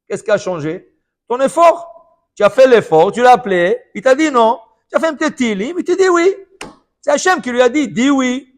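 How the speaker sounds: loud, high, rising sermon climax; full-force preaching. Real, not acted. Preacher driving home the lesson on effort, loud and high. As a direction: build to the climax and hammer it.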